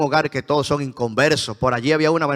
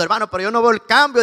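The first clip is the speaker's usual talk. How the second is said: higher and quicker, pleading addict; desperate addict; 6 semitones higher, faster than usual. Retold or imitated. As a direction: beg like a man at the end of his rope. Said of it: "decía el drogadicto".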